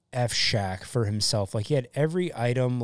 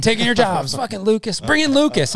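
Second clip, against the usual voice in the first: laughing mock hype; 11 semitones higher, 8 dB louder than usual. Real, not acted. Joking about machine taking jobs.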